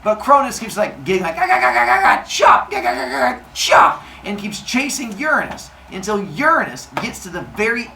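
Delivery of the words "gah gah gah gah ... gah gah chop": high, loud gah gah chopping cries; battle yells. Acted. Cronus chasing Uranus, loud high battle cries. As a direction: hack away yelling.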